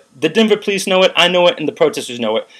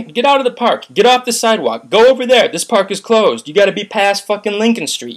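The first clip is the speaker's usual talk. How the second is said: raised, higher commanding voice imitating cops; mock police orders; 5 semitones higher than usual. Imitating Denver police ordering protesters off the sidewalk, mock commanding. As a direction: order them out like an officer, pitched up.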